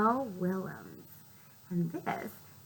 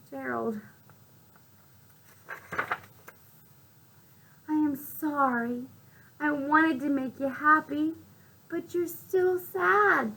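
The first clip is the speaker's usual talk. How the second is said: Piggy; 7 semitones higher, 6 dB louder than usual. Acted. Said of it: "And Piggy says".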